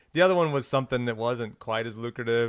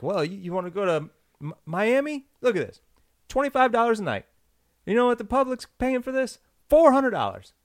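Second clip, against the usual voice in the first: much higher, rising to loud hype; salesman voice; 10 semitones higher, 3 dB louder than usual. Retold or imitated. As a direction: oversell it like a cheesy pitchman. Salesman pitch quoted.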